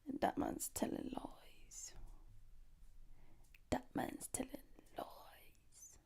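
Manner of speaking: soft, unvoiced whisper. Real, not acted. Talking to the camera in a hushed whisper. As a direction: hush it right down. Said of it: "whispered lines".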